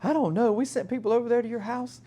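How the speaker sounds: high-pitched imitated gas company lady. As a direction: mimic a puzzled caller explaining a problem. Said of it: "the lady's like".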